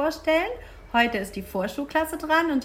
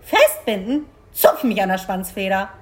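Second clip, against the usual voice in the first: raised, exclaimed disbelief; indignant crow outcry; 6 dB louder than usual. Acted. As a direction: squawk back at an absurd request. Crow exclaims at cow's request.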